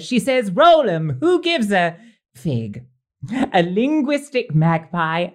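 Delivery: theatrical rhyming verse recital; poem recital. Acted. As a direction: recite the couplets with a flourish. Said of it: "I've been busy authoring some rhyming couplets".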